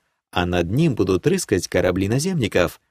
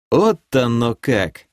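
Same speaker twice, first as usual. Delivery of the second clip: сокрушённо; slower than usual. Acted. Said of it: "сокрушённо произнёс я".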